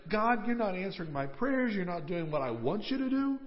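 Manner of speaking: a touch of whine, retold; whiny prayer. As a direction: imitate someone griping in prayer. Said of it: "starts to get a little whiny in his prayers".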